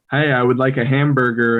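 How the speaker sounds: "hamburger" with the mouth wide and every sound clear; careful formal order; over-enunciated. Shown as a demonstration. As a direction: exaggerate each word of "Hey, I would like a hamburger". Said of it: "over exaggerating it".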